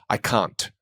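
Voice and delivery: "can't" with the final T swallowed; "can't" with no T, just "can"; dropped T. Shown as a demonstration. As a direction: say "can't" without its T, ending on the N. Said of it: "I wouldn't pronounce".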